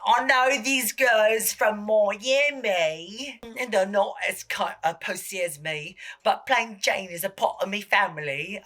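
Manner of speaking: hammed-up British accent with stretched vowels. Drag queen dishing on Miami girls, mock British accent. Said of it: "I don't know why she's British".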